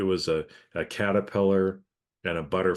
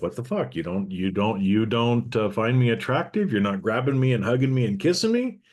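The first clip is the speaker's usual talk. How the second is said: indignant woman; 4 semitones higher, 5 dB louder than usual. Acted. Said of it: "from the female side, it's like".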